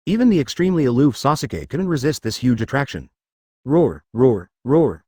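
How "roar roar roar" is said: loud, triumphant roar of joy; wild inner roar. A narrator's reading. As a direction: roar it out in glee. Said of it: "she shouted wildly in her heart".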